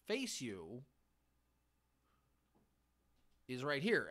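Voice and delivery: mock chairman scolding the three women, lightly voiced; imitating Vince McMahon. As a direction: play the pompous chairman, half-hearted. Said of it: "He's like".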